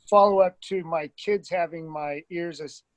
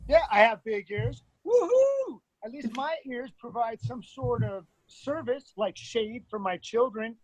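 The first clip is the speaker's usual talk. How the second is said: defensive comeback; 3 semitones higher than usual. Shown as a demonstration. Student comic answers the heckler with attitude. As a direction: defend the ears against a heckler. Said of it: "Try it again".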